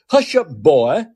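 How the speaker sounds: slightly hammed-up Southern accent; mock a Southern speaker telling someone off; mimicked Southern accent. President to a Muslim guy, in a mock Southern accent. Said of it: "in a Southern accent".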